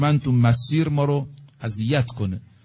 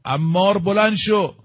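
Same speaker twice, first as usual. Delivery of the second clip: raised, higher call to wake a sleeping friend; urgent mock shout, higher pitch; 6 semitones higher, 3 dB louder than usual. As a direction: cry out his name to rouse him. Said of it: "داد زد".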